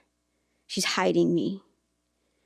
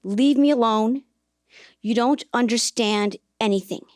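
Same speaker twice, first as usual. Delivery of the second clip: yelling back; 3 semitones higher, 5 dB louder than usual. Retold or imitated. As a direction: yell it back at her mother. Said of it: "She yells back at her mom".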